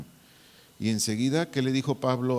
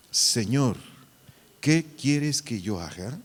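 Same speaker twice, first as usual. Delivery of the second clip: slow, deliberate reading aloud; slower than usual. Shown as a demonstration. Teacher leads the class in the verse, reading aloud slowly. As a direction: read it out slowly for the group to follow. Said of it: "lo podemos leer en voz alta".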